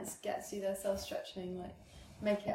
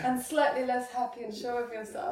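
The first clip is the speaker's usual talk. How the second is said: laughing salesman pitch; 3 semitones higher, 5 dB louder than usual. Pretend. Mock sales pitch continues.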